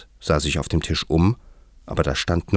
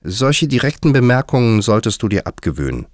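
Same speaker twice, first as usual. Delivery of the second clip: higher, louder reprimand; firm, raised-pitch telling-off; somewhat stern; 6 semitones higher, 5 dB louder than usual. A narrator's reading. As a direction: scold with some severity. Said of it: "sagte Alice mit einiger Strenge".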